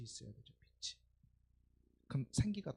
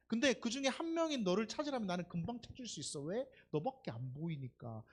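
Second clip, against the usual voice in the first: tender reply. Retold or imitated. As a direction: murmur it like a devoted boyfriend.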